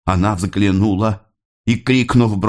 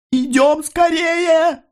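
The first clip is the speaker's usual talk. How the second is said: hushed cry; much slower than usual. A narrator's reading. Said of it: "тихо крикнула мать".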